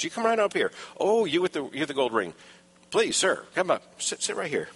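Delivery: fawning host. Acted. Host seating the man with the gold ring, mildly fawning.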